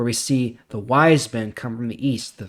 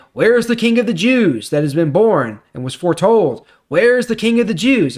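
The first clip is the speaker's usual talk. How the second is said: imitating eager strangers; 8 semitones higher, 5 dB louder than usual. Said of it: "these strangers come in and saying".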